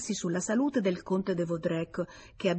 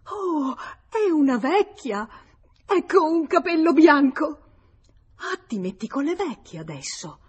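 high shriek, much louder; shrill nervous glee; 9 semitones higher, 6 dB louder than usual. Acted. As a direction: cry out in nervous triumph. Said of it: "un grido stridulo di gioia nervosa". (grido stridulo di gioia nervosa)

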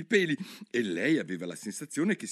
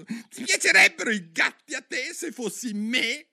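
much higher and louder squealing cry; shrill mouse shout; 5 dB louder than usual. Acted. The offended mouse shrieks at Alice, shrill and loud. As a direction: squeal it out in outrage. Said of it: "con un urlo stridulo e impetuoso".

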